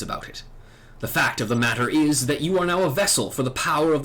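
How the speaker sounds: lightly acted solemn knightly elder; dragoon mentor. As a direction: explain ancient lore with measured gravity. Voices dragoon mentor's long speech.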